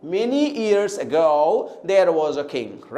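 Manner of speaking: very slow, low model sentence, "ago" as "uh-GO"; correct pronunciation. Shown as a demonstration. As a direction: read deliberately, pressing on "go" in "ago". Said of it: "अगर हम जानते हैं तो हम pronounce करेंगे". (धीमा नमूना वाक्य, "ago" में "गो" पर ज़ोर)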